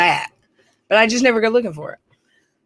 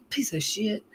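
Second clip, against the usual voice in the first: a much softer curse under the breath; cursing in the head; 11 dB quieter than usual. Retold or imitated. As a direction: hiss it out quietly to yourself. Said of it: "I said it in my head".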